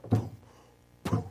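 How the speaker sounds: imitated thuds on a door; imitated pounding. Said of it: "you can just hear the".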